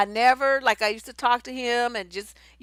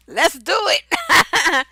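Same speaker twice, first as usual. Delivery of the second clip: loud, high, drawn-out cheer; hammed-up gung-ho yes, stretched slow; mock eagerness; 6 semitones higher, 9 dB louder, much slower than usual. Aries men up for whatever you want, hammed-up eager.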